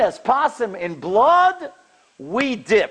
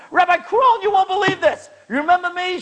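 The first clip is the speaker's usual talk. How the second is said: much higher, eager retold shout; excited screaming; 11 semitones higher than usual. Woman calling the rabbi with amazing news, mock excited yell. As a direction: burst out with the news, high and bright. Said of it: "She's screaming on the phone".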